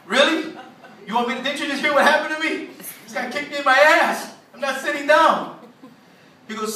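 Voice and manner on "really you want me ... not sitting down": higher-pitched, incredulous objection; indignant protest. Retold or imitated. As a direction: argue back as if wronged. Acted protest to the judge's order.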